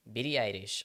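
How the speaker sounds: put-on Japanese accent. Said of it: "you have to pronounce anything that's English in, like, an accent".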